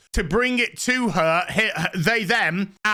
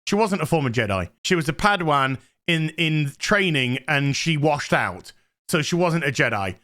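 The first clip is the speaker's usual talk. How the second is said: fast exasperated rant; 6 semitones lower than usual. Real, not acted. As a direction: rattle off the correction fast and low. Fast annoyed correction.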